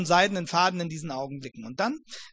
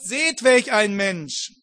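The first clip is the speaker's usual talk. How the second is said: proclaiming to crowd; 6 dB louder, much slower than usual. Acted. Pilate presents Jesus to crowd.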